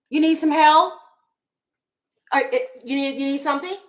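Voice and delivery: a clerk tailing a shopper; hovering store clerk. Retold or imitated. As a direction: store clerk pushing help on a Black shopper, falsely eager.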